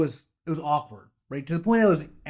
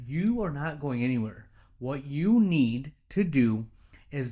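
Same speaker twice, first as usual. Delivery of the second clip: slow, deliberate delivery with pauses between phrases; firm retold advice; slower than usual. Boss reassuring staff member she is not going anywhere, slow and firm. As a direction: spell it out slowly, word by word.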